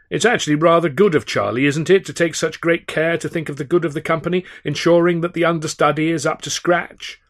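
butter up the absent star with a sly smile; sly fawning. A narrator's reading.

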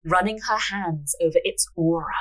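measured storyteller's reading; story narration. A narrator's reading. Narrator reading a fortune-teller scene, measured narration. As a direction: read the tale aloud, unhurried.

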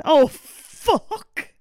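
drawn-out dismayed oh fuck, rising. Real, not acted. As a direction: groan it out as the plan collapses. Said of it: "Why did you go, "Oh, fuck".

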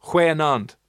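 "goeienaand" carefully copied, throaty kh start; learner's Afrikaans. Shown as a demonstration. Host copying the caller's evening greeting, careful Afrikaans. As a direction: echo "goeienaand" as khwe-naand. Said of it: "That's perfect".

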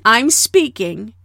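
slow, firm, each word weighed. Retold or imitated. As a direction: hold your ground calmly. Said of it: "And so not to".

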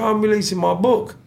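smug boast. Retold or imitated. Attacker's smug reply voiced.

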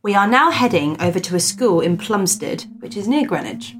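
measured storyteller's read-aloud; story narration. Acted. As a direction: read out an old ghost report with deliberate emphasis. Reads a ghost story aloud.

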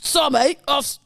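lightly voiced British gangster; Alfie. Comparing the film voice to Alfie, attempted gangster impression. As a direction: have a halting go at the gangster. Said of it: "to Alfie".

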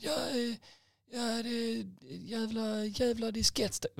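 high, sputtering angry customer; drawn-out high-pitched imitation of rage; mock fury. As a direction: sputter curses in a hammed-up high voice. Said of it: "han är så jävla arg fortfarande".

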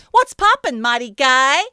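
high, loud surfer dude shout. Retold or imitated. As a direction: holler it like a stoked surfer. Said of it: "a surfer dude voice".

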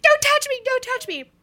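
high, loud distraught cry; distraught wail. Retold or imitated. Sobbing to her husband in the green room, high wail. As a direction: wail it, begging not to be seen.

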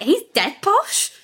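high, slow, playful tease; teasing jab. Retold or imitated. Pointing at her posh boyfriend, high playful tease. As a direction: poke fun at him with a grin. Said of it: "point at my boyfriend and be like".

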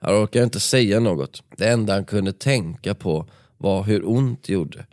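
steady dramatic read-aloud of a book passage; story narration. A narrator's reading. Podcast host reading the nightclub brawl to his co-host, dramatic narration. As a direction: paint the fight scene for the listener.

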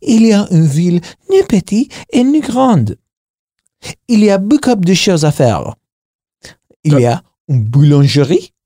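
lightly acted schoolroom French; French oral exam recital. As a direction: recite rote-learned exam answers in French. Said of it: "oral exam back in G C S E was like".

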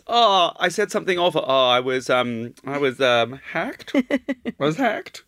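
hesitant mock apology in put-on accent; hammed-up accent, halting before the excuse; Bela Lugosi. Mimicking the designers' excuse, mock Lugosi accent. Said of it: "the only accent I can do is Bela Lugosi".

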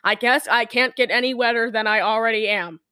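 lightly put-on soggy line reading; wet piece of toast. Storyteller repeating the soaked man's line, wet-toast delivery. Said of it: "He said it like that".

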